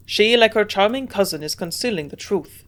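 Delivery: put-on a frank old German scientist; frank German accent. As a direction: judge her plainly, German accent. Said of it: "he answered frankly".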